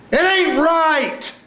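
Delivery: very high, long-held cry; pleading for a hug. Acted. Actor trying to get Annie to hug them, high drawn-out plea. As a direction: reach out with a high, stretched plea. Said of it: "I'm trying to get her to hug me".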